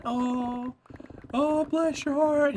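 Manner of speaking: high, slow mock-tearful voice; imitated crying. Grandfather learning who his grandson is, imitated tearfulness. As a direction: wail it gently, acting moved. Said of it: "He'll start crying".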